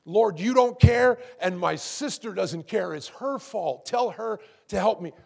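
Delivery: blaming outburst. Acted. Martha complains to the Lord about her sister, blaming. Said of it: "she began to lash out ... began to blame".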